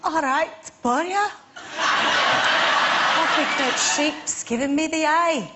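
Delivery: put-on shaky stab at a Welsh accent, drawn out; attempted Welsh accent. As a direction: try copying a Welsh accent, slowly. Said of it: "what accent do you think she was doing".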